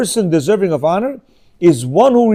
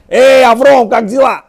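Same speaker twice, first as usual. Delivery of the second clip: higher, louder cheerful greeting; friendly kids calling; 7 semitones higher, 8 dB louder than usual. Retold or imitated. Kids greeting the rabbi as a friend, loud cheerful. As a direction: hail him like a buddy. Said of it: "They're saying".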